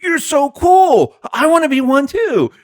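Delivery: mock-dreamy admirer voice; mocking gushing fan. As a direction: swoon over it like a fangirl. Reporter mocked as gushing fan.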